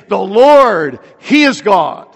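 loud, ringing confession of faith; emphatic declaration. Acted. Believer dedicating himself to the Lord, emphatic declaration. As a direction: declare it loudly and firmly.

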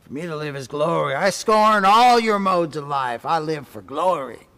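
soldier boasting of his glory; proud soldier. Acted. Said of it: "as a soldier".

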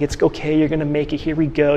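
a husband gently coaxing his depressed wife, soft and tender; gentle encouragement. Retold or imitated. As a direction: ease your wife out of the pit softly. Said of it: "I would kind of gently pull up that rope".

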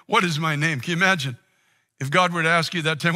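ordinary talk, nothing marked

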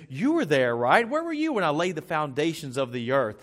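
mildly sarcastic challenge. Acted. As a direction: needle him with a touch of sarcasm. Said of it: "sarcasm in this tone".

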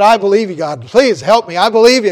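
pleading loudly from the branch; desperate pleading. Acted. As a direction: insist you believe, pleading.

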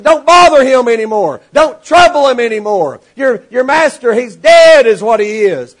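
a hammed-up messenger yelling; shouted warning. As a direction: bark it as final news. Messenger shouts the master is dead.

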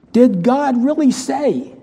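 slow, sly, questioning tempter; a hint of the sneering tempter; mock serpent voice. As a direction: drag out the doubt like the serpent. Voicing the serpent's words.

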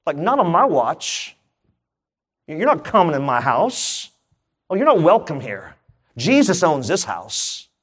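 defiant declaration. Pretend. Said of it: "you gotta start saying".

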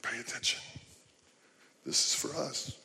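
softly hushed disciples, half whispered. Retold or imitated. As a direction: let the disciples mutter it to each other under their breath. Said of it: "The disciples are going".

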